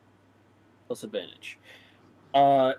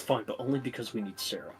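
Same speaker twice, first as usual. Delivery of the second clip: whisper; 3 semitones lower, 10 dB quieter, faster than usual. Acted. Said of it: "he, like, whispers to Citrine".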